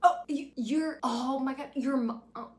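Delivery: high, loud hammed-up shock; mock surprise. The man gawking that Lorelai is a mother, mock astonished. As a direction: overplay his disbelief.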